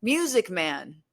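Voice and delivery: slow, drawn-out spirit box voice. Retold or imitated. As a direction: stretch it out like a ghostly radio voice. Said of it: "he goes".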